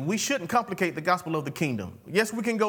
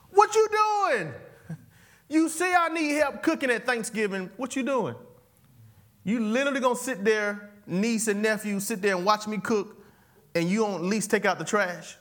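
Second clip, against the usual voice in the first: fed-up scolding; 4 semitones higher than usual. Retold or imitated. Host scolding niece and nephew watching her cook. Acted family scolding, high and loud.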